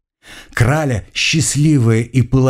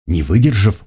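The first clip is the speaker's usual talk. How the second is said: plain reading voice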